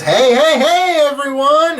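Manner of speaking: high, loud hail to a crowd; Rendil. Acted. Rendil arriving at the inn, high hearty call. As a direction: call out a big jolly greeting.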